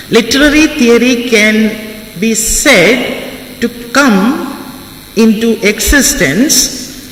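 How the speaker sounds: slow, word-by-word dictation so students can write it down. Shown as a demonstration. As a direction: dictate slowly, pausing between phrases. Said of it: "I will repeat".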